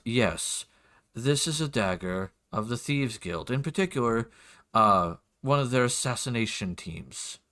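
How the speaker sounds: lightly voiced measured lord; a hint of a formal nobleman explaining; lord's voice. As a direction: lay out the finding with deliberate poise. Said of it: "do my best for his voice".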